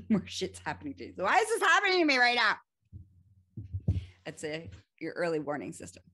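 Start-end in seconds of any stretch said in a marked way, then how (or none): 1.2-2.6 high, loud, fast exasperated whine; mock exasperation, higher and louder; frustrated whine. Shown as a demonstration. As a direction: play the put-upon victim, fast and loud. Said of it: "playing the victim".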